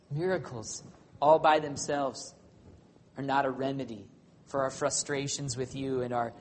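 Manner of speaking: pulpit prayer opening strong and fading to hushed; closing prayer. Acted.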